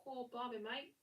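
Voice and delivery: hammed-up mock Australian accent; playful fake Aussie, lifting each "mate"; bad Australian accent. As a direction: tease in a badly faked Australian accent. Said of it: "do a really bad accent".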